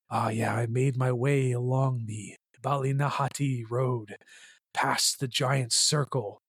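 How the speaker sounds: playful mock Irish accent, storyteller tone; jokey Irish accent, spinning a yarn. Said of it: "I'm not gonna do a shitty Irish accent".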